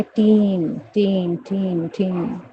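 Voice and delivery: "टीन" drawn out, fading with each repeat; long stressed TEEN. Shown as a demonstration. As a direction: hold the vowel of "टीन". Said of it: "stress देकर इसको long pronounce करोगे".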